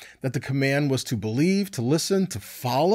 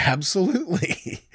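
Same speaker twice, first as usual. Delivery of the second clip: laughing; 4 semitones higher than usual. Real, not acted. Answering own question with laugh.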